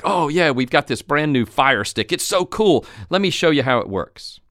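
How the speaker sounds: lightly enthusiastic store employee; mildly excited. Acted. Employee showing a shopper a new product, mildly excited. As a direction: act a touch thrilled to show it off. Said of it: "show any level of excitement".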